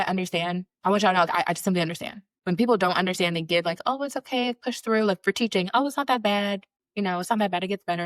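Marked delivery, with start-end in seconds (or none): 3.9-8.0 dismissive comfort. Retold or imitated. Teacher mimicking colleagues' hollow advice, lightly mocking. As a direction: brush it off like it's nothing.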